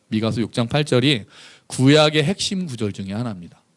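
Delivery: ordinary delivery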